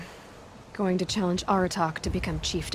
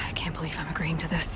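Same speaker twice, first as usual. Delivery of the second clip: sigh, then whisper it under your breath, fed up; grudging, barely voiced resignation; weary whisper; 4 semitones lower, 4 dB quieter than usual. Reluctantly agreeing to help, sighing and whispering.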